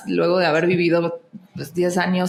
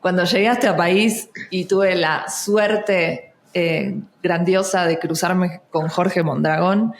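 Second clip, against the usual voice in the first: switching back to neutral Mexican Spanish; llegué said with a Mexican y sound; neutral Mexican accent; slower than usual. Shown as a demonstration. Actress shows her learned Mexican accent. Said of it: "me voy a terminar en el neutro".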